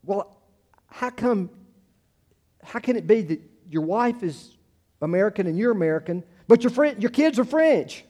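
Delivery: high, puzzled child imitation; halting kid's question, climbing in pitch; little kids. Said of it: "And they said".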